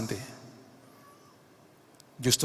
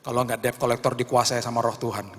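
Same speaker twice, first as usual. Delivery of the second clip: normal talking voice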